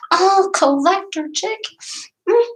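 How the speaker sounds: high, bright squeal of recognition; excited greeting. Real, not acted. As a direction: greet her like a dear friend. Reading a viewer's name excitedly.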